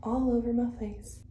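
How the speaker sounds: breathless, short of air; out of breath. Real, not acted. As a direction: talk while winded. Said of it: "I don't know why I'm out of breath".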